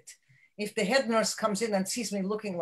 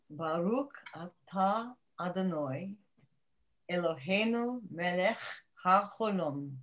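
reciting a prayer; 2 semitones lower than usual. Acted. Recites the Hanukkah blessing.

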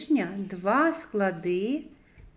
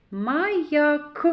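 Маяк, higher and louder, closing on a separated К; stress on final К; 5 semitones higher, 5 dB louder than usual. Shown as a demonstration. Teacher isolates the last consonant, К emphasized. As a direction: sound out the К ending Маяк. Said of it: "к, твердий приголосний".

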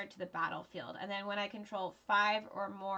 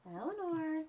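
calling out; 7 semitones higher than usual. Real, not acted. Calling Eleanor to come over.

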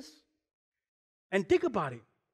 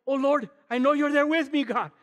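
frightened prayer; 4 semitones higher, 4 dB louder than usual. Retold or imitated. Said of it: "I can picture Daniel saying".

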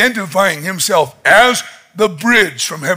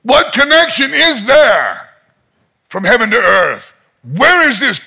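pleading, higher-pitched questions; crying out to heaven; 4 semitones higher than usual. Retold or imitated. Lonely Nathaniel questioning the sky, crying out. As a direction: cry your questions up to the sky. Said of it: "crying out to the sky".

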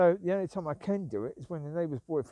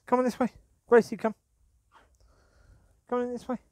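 loud sharp call; calling the dog; 8 semitones higher, 6 dB louder, faster than usual. Real, not acted. Owner calling Gracie, loud sharp call. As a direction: call her name out firmly.

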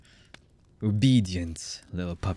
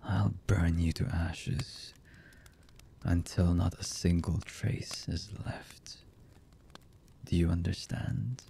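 quiet threat; 5 dB quieter than usual. Acted. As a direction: threaten softly, holding the anger in. Threatens to burn the listener.

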